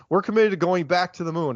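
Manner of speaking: a hint of a politician's voice making a promise; Obama impersonation. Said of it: "kind of doing an Obama impersonation".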